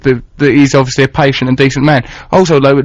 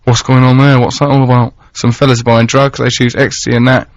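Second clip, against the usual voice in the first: Carl's Manchester accent. Shown as a demonstration. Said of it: "this is in your accent".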